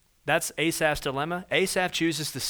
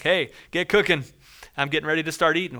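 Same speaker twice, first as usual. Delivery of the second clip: eager hungry diner; 5 dB louder, faster than usual. Retold or imitated.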